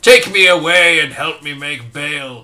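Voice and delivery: shouting out for rescue; fleeing gnome shouts to the sleigh for rescue; loud plea. Acted. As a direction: belt it to the sky. Pleading call to the sleigh.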